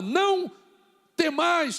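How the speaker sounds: loud, high preaching shout; emphatic command. Acted. Preacher quoting Jesus to the disciples, loud command. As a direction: proclaim it as an order.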